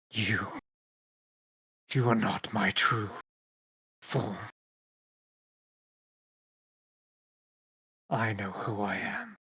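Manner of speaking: low, soft growling tone. Game master voices a creature answering the players, low growling Draconic voice. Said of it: "growling like tone to it".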